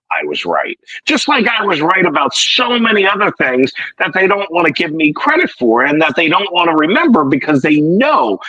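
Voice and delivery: smug, self-congratulating tone; mock gloating. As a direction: brag about always being right. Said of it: "there it is again".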